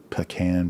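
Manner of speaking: pecan pronounced puh-KAN; Texas pecan. Shown as a demonstration. Teaching a Texas accent, pecan said puh-KAN. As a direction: say pecan as puh-KAN, second syllable stressed. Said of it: "if you're doing a Texas accent".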